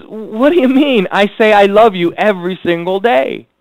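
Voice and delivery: a husband protesting he says it daily; puzzled husband. Retold or imitated. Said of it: "And he says".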